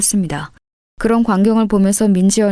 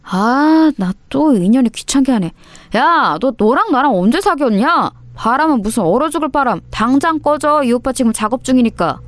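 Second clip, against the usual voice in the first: exasperated delinquent, pitched up; annoyed dismissal; 4 semitones higher than usual. Acted. Bully denying he dated the girl, annoyed and dismissive. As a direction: shoo away a clingy nuisance.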